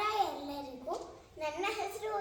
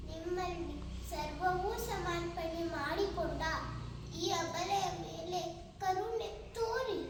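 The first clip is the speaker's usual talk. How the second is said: impassioned stage pleading with emphatic peaks; Sita. Acted. Sita begs her lord not to blame her, impassioned pleading. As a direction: beg for justice, surging on key words. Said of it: "ಸೀತಾಮಾತೆಯ".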